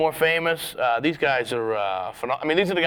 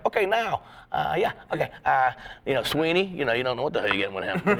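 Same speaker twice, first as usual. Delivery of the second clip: Don Gavin impression. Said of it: "Don Gavin".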